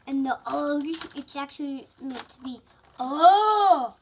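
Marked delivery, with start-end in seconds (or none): 3.0-3.9 surprised oh. Acted. Character exclaims in book.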